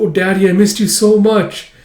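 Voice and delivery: high, gushing daughter; retold heartfelt outpouring; acted tearful-joy reunion. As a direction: pour out affection to a long-lost father. Daughter's emotional reunion with father.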